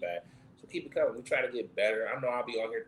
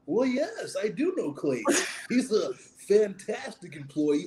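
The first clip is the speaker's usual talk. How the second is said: customer service voice; 13 semitones higher, 10 dB louder than usual. Acted. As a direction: put on your best customer service voice. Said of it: "who got a good customer service voice".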